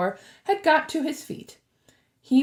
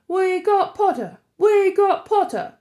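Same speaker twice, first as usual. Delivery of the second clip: loud, higher triumphant yell; yelling twins; 9 semitones higher, 6 dB louder than usual. A narrator's reading. The twins celebrating Harry, loud high yell. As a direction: cheer it across the table. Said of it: "the Weasley twins yelled".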